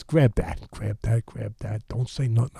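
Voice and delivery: imitated secretive instructions; furtive orders. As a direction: give hushed conspiratorial commands. Cus furtively ordering food taken.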